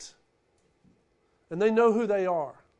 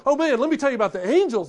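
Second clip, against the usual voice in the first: mock angel-story bragging; 5 semitones higher, 8 dB louder, faster than usual. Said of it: "They weren't going".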